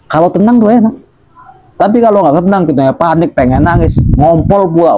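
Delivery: suara tinggi melengking pura-pura panik; panik mengejek. Acted. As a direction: seperti anak panik mau menangis. Mocking panic, high voice. (ustaz menirukan santri panik, suara tinggi)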